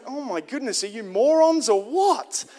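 mock exasperation. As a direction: act out incredulous exasperation, stretching the words. Mocking the disciples shooing children away.

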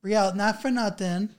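put-on scolding aunt in thick Long Island accent; Long Island auntie, slow and fed up. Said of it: "channel your Long Island accent".

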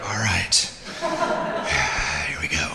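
low, creepy groaning voice; spooky low voice with a sigh. Pretend. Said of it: "I did such a creepy voice".

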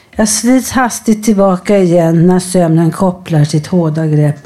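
measured poetry recital with pauses between phrases; poem reading. Acted. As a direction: read it line by line, letting each image stand. Reads own or colleague's poem aloud.

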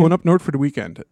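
fast Minnesota "Going up north for the weekend"; Minnesota accent. Shown as a demonstration. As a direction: rattle it off quickly, Minnesotan. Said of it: "just say it fast".

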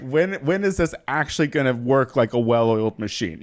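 laughing exasperated shout. Real, not acted. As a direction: holler it, half-laughing.

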